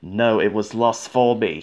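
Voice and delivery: a touch of a cross, huffy reply; mildly cross retort; crossly. Acted. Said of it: "he answered crossly".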